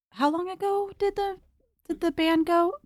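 talking around candy; mouth full. Real, not acted. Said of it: "I have candy in my mouth".

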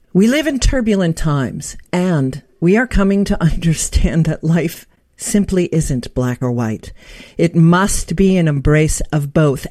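measured, clearly projected bio read; scripted host introduction. Acted. Host formally introducing an author guest to listeners, presenter read. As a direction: read it out like a prepared radio introduction.

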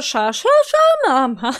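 "sza" and "mama" in contrasting exaggerated tones; differently accented syllables. Shown as a demonstration. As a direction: play with the pitch on each "sza", then "mama". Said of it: "Trzeba jakoś inaczej zaakcentować".

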